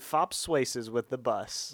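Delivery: "fops swaces" with the first sounds swapped, said slowly; spoonerism. Real, not acted. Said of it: "back on those spoonerisms".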